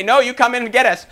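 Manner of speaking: high, loud mock defiance; cocky imitated refusal; arrogant retort. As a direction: taunt the king, laughing. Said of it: "They weren't arrogant".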